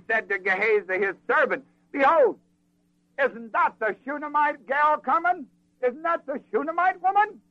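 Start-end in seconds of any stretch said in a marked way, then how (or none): 1.9-7.4 excited recognition. Acted. Prophet sees woman coming afar.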